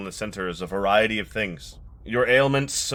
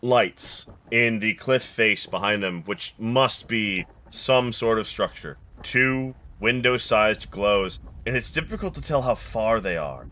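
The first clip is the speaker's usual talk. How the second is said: game master narration. Acted. GM sets the scene.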